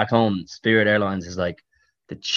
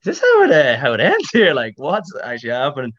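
high, strained panic, voice climbing sharply; thinking this is how it ends; panicked disbelief; 5 semitones higher than usual. Retold or imitated. Passenger mid-flight fearing the plane goes down, panicked high voice. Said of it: "You're like".

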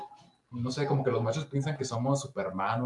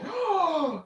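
very high-pitched "ah"; mock shock at what just happened; acted shocked gasp. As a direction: imitate a startled little cry. Imitates own reaction after the blow.

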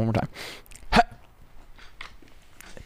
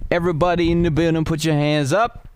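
hype MC call; 4 semitones higher than usual. Pretend. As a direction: call it out like a club MC.

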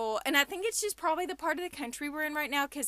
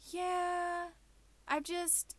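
confused woman; 6 semitones higher, 5 dB quieter, much slower than usual. Retold or imitated. Retells confused woman answering.

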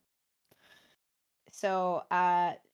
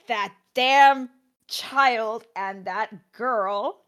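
gruff villain; 2 semitones higher, 7 dB louder, much slower than usual. Retold or imitated. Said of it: "he's speaking very gruffly".

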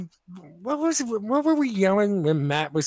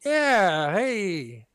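fake-familiar greeting; 3 semitones higher than usual. Shown as a demonstration. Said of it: "you gotta be like".

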